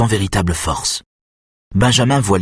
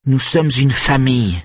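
stern, weary reminder, pitched up; sévère et las; 6 semitones higher than usual. A narrator's reading. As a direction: say it sternly, worn out. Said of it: "d'une voix sévère et lasse". (rappel sévère et lassé)

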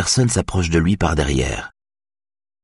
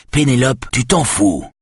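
léger étonnement, un peu plus haut; stupéfait; 6 semitones higher than usual. A narrator's reading. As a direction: Carlos n'en revient pas, sans forcer. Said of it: "l'interrompt Carlos stupéfait". (une pointe de stupeur)

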